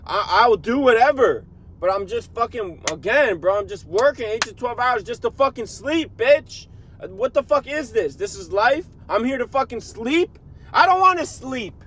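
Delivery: high, strained complaining about the grind; venting the daily grind in a high wail; whiny complaining. Real, not acted. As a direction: plead it up high, half breaking. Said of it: "I feel like complaining like a bitch right now".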